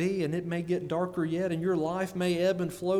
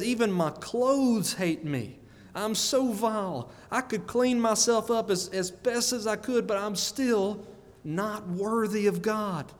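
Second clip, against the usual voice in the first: higher-pitched, preached lament; mildly acted anguish of a vile sinner; self-loathing lament; 4 semitones higher than usual. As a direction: plead your own unworthiness, pitched up. Preacher acts out Job's self-loathing.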